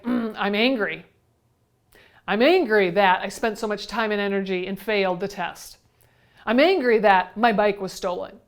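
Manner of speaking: mild acted anger, leaning on "angry"; mock angry. Teacher voicing what angry people say, mildly angry. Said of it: "When you're angry, what are some things that you say?".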